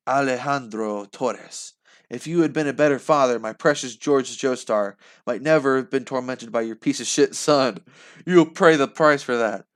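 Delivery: building to a furious threat; angry threat. Acted. Girl threatens the vampire father.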